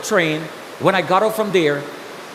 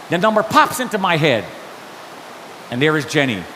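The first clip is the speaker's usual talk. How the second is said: usual speaking voice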